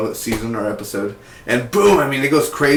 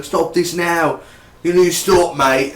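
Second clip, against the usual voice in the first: a touch higher, firmer mom imitation; closer mom voice; 6 semitones higher than usual. Correcting himself, a light imitation of the mom. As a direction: redo the mom's line a bit more like her. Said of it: "She's not, she don't sound like that".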